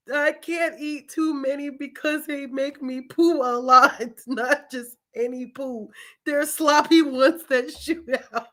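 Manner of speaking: high, laughing re-read of the line; reading through laughter. Real, not acted. Re-reading the book line to viewers, laughing. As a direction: laugh your way through the sentence. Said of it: "I'm literally in tears".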